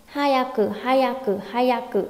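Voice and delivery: "Hayaku" quick, with a stopped "yak" in the middle; joined "yak". Shown as a demonstration. Teacher repeats for students, syllables linked. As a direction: close the ya of "Hayaku" on the k. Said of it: "nối vào nhau thành chữ yak".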